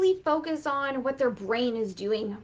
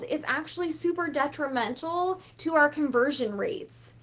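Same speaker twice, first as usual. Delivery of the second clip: ordinary talk, nothing marked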